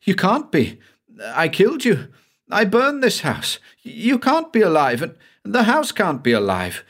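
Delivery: high, horrified voice facing a dead man; frantic terror at the man he killed; shrieking in horror. A narrator's reading. Banks sees the dead Brian in the cellar, high horrified cries. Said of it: "he began to shriek".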